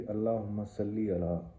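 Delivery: steady, even Arabic prayer recitation; दरूद शरीफ recitation. Real, not acted. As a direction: recite the blessing in an unbroken, measured chant-like flow. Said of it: "दरूद शरीफ शुरू करते हैं जी". (दरूद शरीफ की सधी हुई तिलावत)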